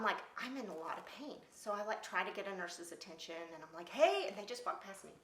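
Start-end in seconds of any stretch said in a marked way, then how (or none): 3.9-4.3 high, louder call for a nurse. Retold or imitated. Patient calling to passing nurses, high and louder. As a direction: call out to get attention.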